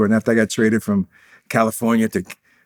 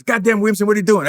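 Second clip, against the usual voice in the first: angry coach; 10 semitones higher, 3 dB louder, faster than usual. Retold or imitated. Coach runs over, shocked.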